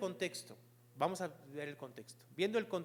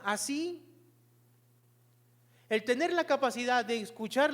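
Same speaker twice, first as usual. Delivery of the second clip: higher, insistent sermon voice; emphatic preaching; 6 semitones higher, 6 dB louder than usual. Real, not acted. Preacher telling believers about relationship with God, emphatic preaching. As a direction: drive the application home to the congregation.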